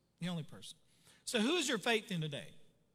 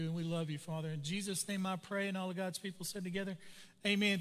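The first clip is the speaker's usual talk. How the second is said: pastoral prayer; 2 semitones lower than usual. Acted. Pastor praying for his congregation, hushed and reverent.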